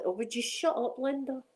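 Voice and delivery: scolding herself. Retold or imitated. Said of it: "I do tell my".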